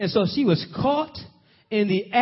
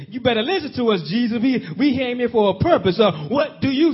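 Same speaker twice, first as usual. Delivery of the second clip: demanding crowd; 4 semitones higher, 3 dB louder than usual. Retold or imitated. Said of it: "they kept on demanding".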